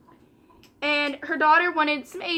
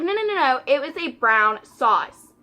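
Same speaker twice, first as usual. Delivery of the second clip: insistent mock customer; 5 dB louder, slower than usual. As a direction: imitate the customer pushing back hard. Customer insisting, getting aggravated.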